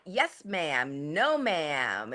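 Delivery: a hint of a well-mannered suitor; polite young man. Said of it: "he was so polite".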